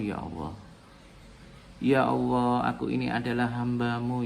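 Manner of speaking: hushed personal prayer to God; humble prayer. Shown as a demonstration. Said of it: "Contoh, ya".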